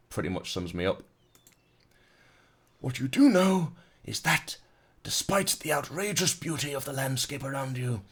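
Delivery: David Attenborough voice. Acted. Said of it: "like David Attenborough".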